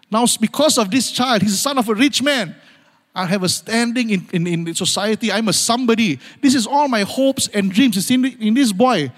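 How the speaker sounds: lightly voiced mother clinging to her son as her future; Hagar's hopeful thoughts. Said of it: "you're thinking now".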